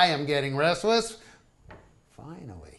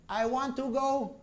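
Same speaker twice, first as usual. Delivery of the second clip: wife insisting; 7 semitones higher, 4 dB quieter than usual. Retold or imitated. Wife changes her mind.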